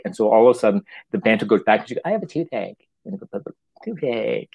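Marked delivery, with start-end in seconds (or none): 2.1-2.9 higher-pitched little whine; mock whining. Student to her teacher about a toothache, whining. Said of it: "she starts whining about toothache". 3.8-4.5 drawn-out whiny word; mock whining. Student interrupting the lesson with toothache, whining. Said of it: "she starts whining about toothache".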